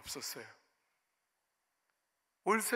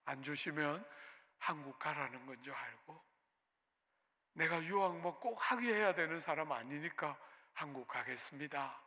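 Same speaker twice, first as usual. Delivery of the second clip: soft, lowered voice of surrender; meek, climbed-down prayer; 4 semitones lower, 6 dB quieter than usual. Retold or imitated. Pastor with tail down telling God he will go home, meek. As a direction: give in humbly, quietly. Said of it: "꼬리 쫙 내리고".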